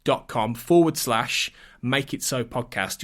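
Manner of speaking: slow, spelled letter by letter; reading out a web address for listeners, letter by letter; spelling out slowly. Shown as a demonstration. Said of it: "So if you go to Patreon".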